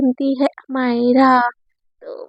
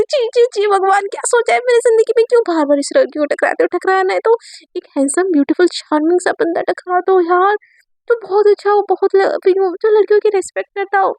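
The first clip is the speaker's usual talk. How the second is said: mock plea to god; 6 semitones higher than usual. Girl pleading with god about boy.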